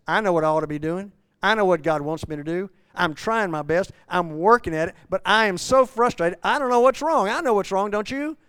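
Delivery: loud, quick, pleading confession; frustrated Paul. Acted. Preacher voicing Paul again, frustrated and building. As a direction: push it out fast, building to a plea. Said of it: "Paul says".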